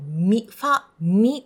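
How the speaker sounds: ファ and ミ as separate full Japanese syllables; clearly separated ファ, ミ; katakana pronunciation. Shown as a demonstration. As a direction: give ミ a full katakana i vowel. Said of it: "カタカナで考えると".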